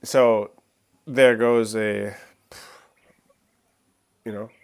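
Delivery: talking with a sniffly nose; sick and sniffling between words. Real, not acted. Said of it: "sorry about the sniffling".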